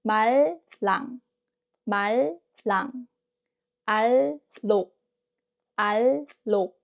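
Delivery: 말랑 and 알록 with tongue bent slightly back; ㄹㄹ demonstration. Shown as a demonstration. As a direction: model the double ㄹ in 말랑 and 알록 with a light tap. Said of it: "and tap it lightly, like this".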